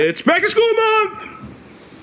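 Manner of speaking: high, slow, hammy announcer. Acted. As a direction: sing it out like an ad. Announcing the month theme.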